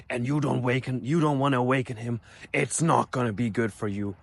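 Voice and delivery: put-on light Ukrainian accent, slowing on the threat; half-serious Ukrainian threat; mock Ukrainian accent. Professor warns class about his samurai past, Ukrainian accent. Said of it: "thick Ukrainian accent".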